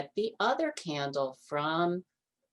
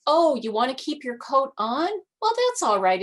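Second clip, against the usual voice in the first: higher, louder kindly granny; high old grandmother voice; 8 semitones higher, 6 dB louder, faster than usual. A narrator's reading. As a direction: coax the bear like a sweet old lady.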